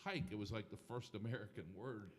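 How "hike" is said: high, mock football call of hike; imitating players' hike call. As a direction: echo the foreign players shouting hike. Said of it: "I see these Cambodians going".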